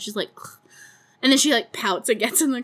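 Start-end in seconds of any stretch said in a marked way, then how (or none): 0.4-0.6 mock teenage scoff of disgust; short huffy "ugh"; teenager scoff. Teen told to get in the car, huffy scoff. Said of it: "does the teenager thing".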